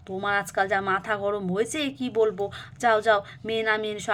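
lightly voiced husband, mildly chiding; a hint of a stern husband; exasperated husband. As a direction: gently scold your upset wife, then send her off.

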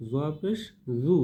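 soft z on 'জু', tongue at upper teeth; touch the tongue tip to upper teeth for a gentle 'জু'; soft zwa sound. Shown as a demonstration. Teacher models zwa pesh, soft dental 'জু'. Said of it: "নরম, জিহ্বার আগা".

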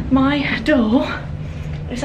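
panting after the walk; breathless, catching your breath. Real, not acted. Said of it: "I'm so out of breath".

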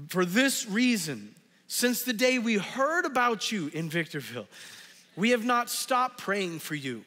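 measured, earnest Bible reading; a pastor reading Colossians to his church; scripture reading. Acted. Reads scripture aloud.

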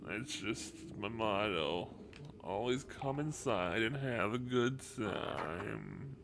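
goofy character voice; silly put-on voice. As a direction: ham up a dopey confession. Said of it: "That voice hurts".

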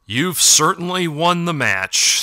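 cool, slow and measured, a touch aloof; coldly. A narrator's reading. Elder coldly informing the victor of the match. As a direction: hand out the verdict without warmth. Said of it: "said the elder coldly".

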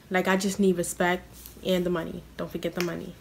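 ordinary delivery

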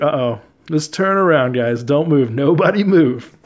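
lightly acted movie warning, slowing on the last words; a mock alarm, mildly played up; Jurassic Park character. Warning the others in a dinosaur scene, lightly acted alarm. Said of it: "like a scene from, like, Jurassic Park".

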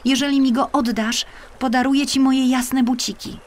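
put-on high child's voice offering a trade; a child offering her shoes; bargaining little girl. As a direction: coax the river like a little girl. Marysia bargaining with the river.

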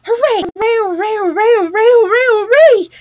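high, loud run of hoorays; jubilant cry. A narrator's reading. Rat cheers suddenly at his find, jubilant and loud. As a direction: whoop it out over and over, elated. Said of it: "Suddenly the rat cried".

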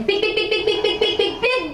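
high, loud urging chant; energetic coaching. Shown as a demonstration. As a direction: pump them up to breathe in. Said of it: "coaching the breath".

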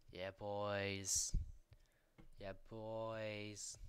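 loud cheer to the team; excited cheer. Real, not acted. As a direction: celebrate the win out loud. About to win.

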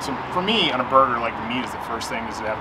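talking around a bite of food; chewing between words; mouth full, chewing. Real, not acted. Seen 0: Took a bite just before; jaw and lips keep working while speaking.

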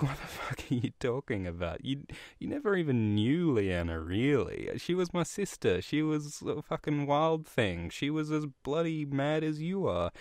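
acted-out scolding, pitch leaping in disbelief; exasperated rebuke. Ned scolding Robert over his dead sister, exasperated.

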